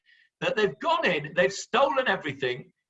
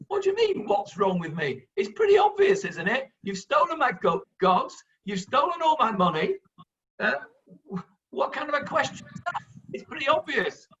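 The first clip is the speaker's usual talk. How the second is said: high, incredulous protest at the obvious; a hint of an outraged victim, rising in pitch; indignant outburst; 5 semitones higher than usual. Micha protesting to the tribe of Dan who robbed him, incredulous. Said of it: "Micha says".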